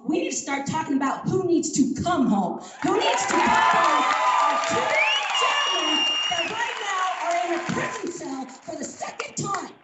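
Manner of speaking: real heated outrage at a public meeting; getting mad. Real, not acted. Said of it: "I'm getting out mad".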